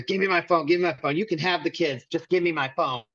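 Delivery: lightly voiced wife begging, not much acted; imitating pleading ex-wife. Husband retelling his crying wife begging for her phone, mild mock plea. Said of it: "That's what she says to me".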